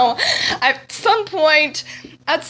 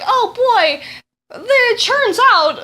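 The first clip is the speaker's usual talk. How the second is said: mock game hero; 8 semitones higher, much slower than usual. Mocking game dialogue retold.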